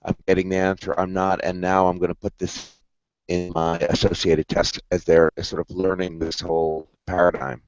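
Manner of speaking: choppy robotic voice from bad Wi-Fi; robot voice over a weak connection; robotic glitchy audio. Real, not acted. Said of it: "you're sounding a bit, a bit like a robot".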